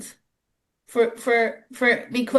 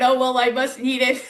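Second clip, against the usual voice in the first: laughing. Real, not acted. Laughing at own bad-breath joke.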